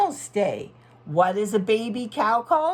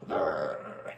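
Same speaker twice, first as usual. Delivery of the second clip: growl; 8 dB quieter than usual. Acted. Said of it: "he growled".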